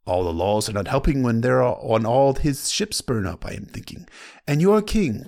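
put-on lightly accented old Lyseni sailor; a hint of a foreign merchant accent. Reads Salladhor Saan's lines.

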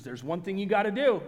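mock-dramatic build-up; loud build-up. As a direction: announce it loudly, imitating the professor. Professor's build-up in acted exchange.

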